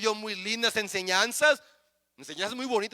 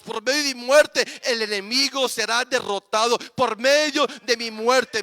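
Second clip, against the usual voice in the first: mounting, louder proclamation of his death; Jesus proclaiming; 4 dB louder than usual. Acted. Jesus telling the crowd, proclaiming louder and louder. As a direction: build each line like a preacher's climax. Preacher voicing Jesus, building.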